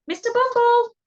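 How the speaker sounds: high, loud summoning shout; calling out. Acted. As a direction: shout the name as if across a house. Bosh calls out to Bumble.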